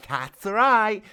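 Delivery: high loud shout. Acted. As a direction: shout it out cheerfully. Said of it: "shouted Richard".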